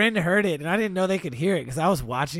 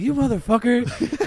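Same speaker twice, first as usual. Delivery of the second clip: slow, higher, laughing you motherfucker; laughing mock insult; 7 semitones higher, 4 dB louder, slower than usual. Friend learning the noise was ASMR, slow laughing mock insult. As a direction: scold him through laughter. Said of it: "he was like".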